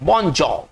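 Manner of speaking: bonjour as "bon-JAW"; French pronunciation. Shown as a demonstration. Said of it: "इसका उच्चारण करेंगे".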